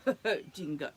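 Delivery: a hint of a fluttery emu; fluttering. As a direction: flutter the ohs like a flirty emu. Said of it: "she fluttered".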